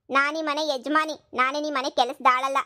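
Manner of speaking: slow, deliberate defiance; lady of the house, slowly laying it down; defiant. Acted. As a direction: spell out her status. Wife asserting rights.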